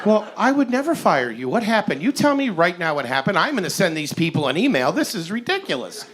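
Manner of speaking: a mother outraged on her son's behalf; doting mom outraged at the restaurant for her son; indignant mom. Retold or imitated. Irish mom defends her baby.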